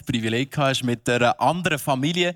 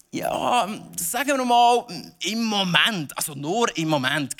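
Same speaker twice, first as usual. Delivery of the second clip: hammy stage actor; 3 semitones higher, slower than usual. Pretend. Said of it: "theatralisch zu spielen".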